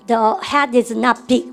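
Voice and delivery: very slow model sentence; slow drill read. Shown as a demonstration. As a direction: drag each word out for repetition. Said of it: "여러분들 그러면". (천천히 끊어 읽는 시범)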